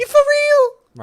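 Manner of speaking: slow, high, loud American outrage; drawn-out shocked US voice; American accent. Pretend. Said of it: "American accent of a guy who just had his wallet stolen".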